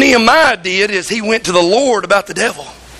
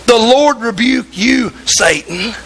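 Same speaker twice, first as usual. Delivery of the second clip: slower, drawn-out rebuke of Satan; slower than usual. Retold or imitated. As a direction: lean on each word, taking your time. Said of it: "He said".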